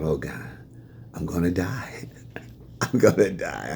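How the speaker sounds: hushed mock terror, half whispered; terrified. Facing his angry father, a half-whispered mock terror. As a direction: whisper it like doom is near, laughing. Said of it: "I was, like, terrified".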